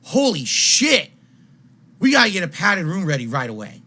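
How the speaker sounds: shocked doctor voice; alarmed doctor. Retold or imitated. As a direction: gasp it out like a startled doctor. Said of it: "they're gonna say to you".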